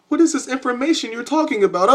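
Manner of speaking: high-pitched questioning put-on voice; imitating curious viewers. Host voicing his viewers' question, imitating curiosity. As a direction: ask it high, as an eager listener. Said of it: "I know what you're thinking".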